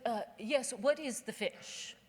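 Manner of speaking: slow, drawn-out snooty question. Retold or imitated. Snobby customer baiting the waitress, slow and snooty. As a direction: ask it slow like a jerk. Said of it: "I was being a jerk".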